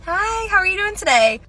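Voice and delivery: high, fake-bright greeting; customer service voice. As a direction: put on a chirpy shop voice. Fake cheerful cashier greeting.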